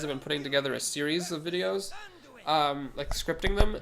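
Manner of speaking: stuffy nose from a cold; nasal cold voice. Real, not acted. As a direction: talk through a head cold. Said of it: "nasally awful voice".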